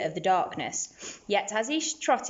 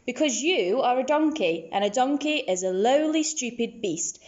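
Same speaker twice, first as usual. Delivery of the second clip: a touch of haughty scorn, slightly higher; haughty camel; 5 semitones higher than usual. Acted. Camel answering the donkey, mildly haughty and higher. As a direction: look down your nose at him. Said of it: "answered the camel haughtily".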